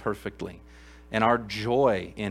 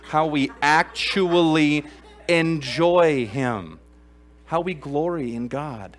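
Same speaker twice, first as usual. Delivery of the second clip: Russian accent; 4 semitones higher, 7 dB louder, much slower than usual. Real, not acted. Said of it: "I went into Russian accent".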